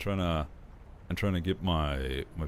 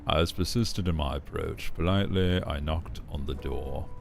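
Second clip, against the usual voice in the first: low villain voice. Acted. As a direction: lean into a low, silky villain. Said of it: "It's hard to hit low points with this voice".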